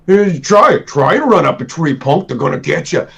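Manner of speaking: a hint of a taunting grizzly bear; lightly voiced, playful taunt. The bear card taunting an opponent, mild playful taunt.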